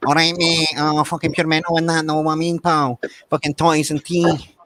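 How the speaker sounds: put-on stereotype Glasgow accent. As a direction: put on a proper stereotype Glaswegian. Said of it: "your stereotype Glasgow accent".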